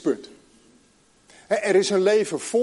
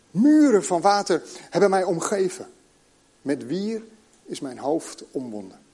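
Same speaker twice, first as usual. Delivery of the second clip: measured, solemn Bible reading; scripture reading; 2 semitones lower than usual. Acted. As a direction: read the passage like a prayer to the congregation. Reads Jonah chapter two aloud.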